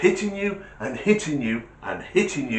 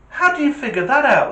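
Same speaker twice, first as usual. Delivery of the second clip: teacher voice; 12 semitones higher, 6 dB louder, faster than usual. Acted. Teacher voice in joke.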